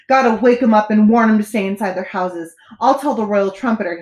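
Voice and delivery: usual speaking voice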